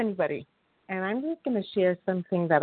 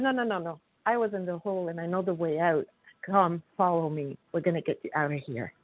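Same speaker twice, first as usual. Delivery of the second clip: calm reassurance; 4 dB quieter than usual. Retold or imitated. Recovered member guiding the man out of the hole, softer calm reassurance. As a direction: reassure him like someone who knows the way out.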